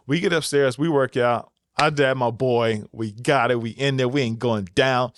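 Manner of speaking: put-on mild New York Bronx accent bragging to the viewers. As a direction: play it like a Bronx guy hyping his crew, New York accent. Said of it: "that's the best New York Bronx accent I got".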